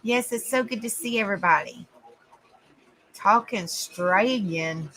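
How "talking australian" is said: slow, lower try at an Australian accent on "Talking Australian"; attempted Australian accent. Shown as a demonstration. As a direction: sound out "Talking Australian" the Australian way, slowly. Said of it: "Hey, I said that pretty good".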